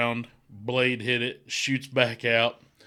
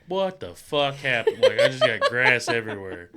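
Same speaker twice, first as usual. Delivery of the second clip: laughing disbelief; 6 dB louder than usual. Retold or imitated. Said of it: "And I come home like".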